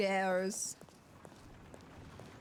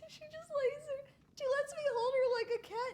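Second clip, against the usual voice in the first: high cooing voice. Real, not acted. Gushing about her dog.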